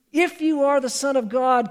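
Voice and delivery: pointed mock challenge from the tempter; taunting tempter. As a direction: lift it and throw it down as a dare. Repeated tempter challenge, raised.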